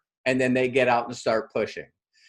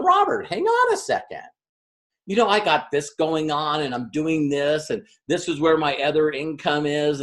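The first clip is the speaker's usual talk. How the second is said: hesitant Tara. Retold or imitated. Tara stalls her coach about launching the business, hesitant. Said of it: "She's going".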